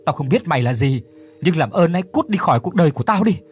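Phước screams at the voice in his head to leave; furious shout. Acted. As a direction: drive the demon away, yelling.

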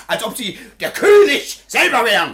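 mocking laugh. Mocking the official in a quarrel.

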